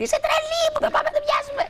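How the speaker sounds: very high squeaky exasperated friend; Betty's exasperated voice. Retold or imitated. Betty begs her to stop chasing, very high squeal. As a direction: squeal it like the scared girlfriend. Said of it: "μου λέει η Μπέτη".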